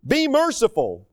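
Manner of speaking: beseech with mild urgency, pitch lifted; begging. Acted. Moses interceding with the Lord for the people, begging. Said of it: "he begged basically and said".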